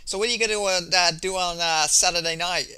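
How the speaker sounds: lightly mocked generic press-conference reporter; hint of a halting interviewer. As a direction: stumble through a routine question, lightly sending it up. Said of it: "the average press conference where it's like".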